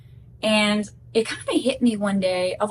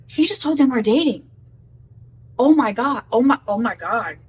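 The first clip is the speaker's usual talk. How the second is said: nervous excitement; 4 dB louder than usual. Retold or imitated. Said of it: "I would get so nervous".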